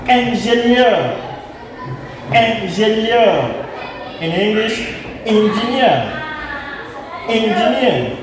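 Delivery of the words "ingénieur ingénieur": "ingénieur" slowly with a nasal first vowel. Shown as a demonstration. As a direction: stretch "ingénieur" through the nose. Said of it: "words such as".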